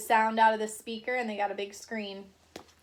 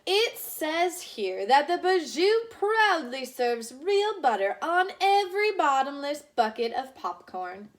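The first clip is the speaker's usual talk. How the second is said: eager Mister Watson; 5 semitones higher, 3 dB louder than usual. Acted. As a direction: savor each word of the good news. Mister Watson reads to wife.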